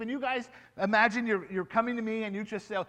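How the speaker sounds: ordinary talk, nothing marked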